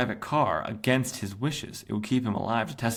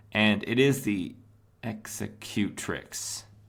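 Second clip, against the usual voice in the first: very slow, deliberate, drawn out word by word. Describing a comic scene, naming a character: said slowly. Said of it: "I'm gonna say that slowly".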